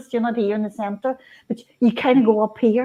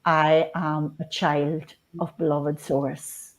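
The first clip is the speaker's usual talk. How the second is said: centering affirmation; 3 semitones lower than usual. Shown as a demonstration. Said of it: "lower my voice like this".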